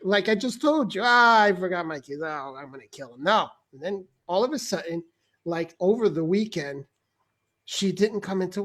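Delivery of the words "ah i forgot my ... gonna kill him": lightly exasperated, dropping low at the end; harmless grumble. Shown as a demonstration. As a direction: toss it off as an idle complaint. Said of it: "I meant it like".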